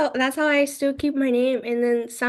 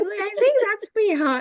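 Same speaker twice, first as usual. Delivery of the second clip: unsure surprise; 10 semitones higher than usual. Retold or imitated. Realizing teacher called her name.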